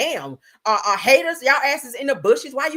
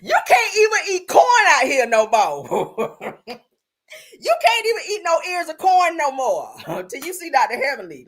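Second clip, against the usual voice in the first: crying laughing; 5 semitones higher, 4 dB louder than usual. Real, not acted. Streamer roasting a photo for chat, crying with laughter. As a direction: wheeze and howl with laughter at the photo.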